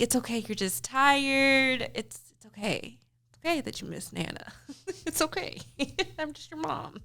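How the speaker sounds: put-on calm a sad little boy, quietly; soothing soft mom voice. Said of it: "I was like".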